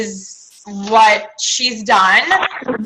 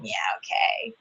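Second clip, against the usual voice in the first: dismissive doubt; 12 dB quieter than usual. Retold or imitated. Doubting thought voiced.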